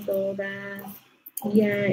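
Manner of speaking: "todavía" slow, the í set apart from the a; slow model pronunciation. Shown as a demonstration. Teacher models the word slowly for the class. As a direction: draw out "todavía" to show the hiatus. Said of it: "Ajá, todavía".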